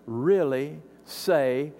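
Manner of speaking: slow, drawn "really say"; mock serpent's question; sly doubting tempter. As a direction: tempt slowly. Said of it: "so, so Eve".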